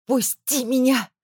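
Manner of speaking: desperate growl, struggling. A narrator's reading. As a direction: snarl it as she tears free. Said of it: "зарычала я". (отчаянный рык, вырываясь)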